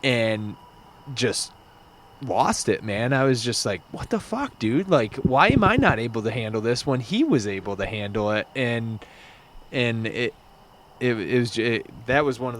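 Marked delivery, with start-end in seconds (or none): 3.9-8.5 retold frustration. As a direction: mildly replay a frustrated moment, jumping up in pitch then settling. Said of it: "at my most level of frustration".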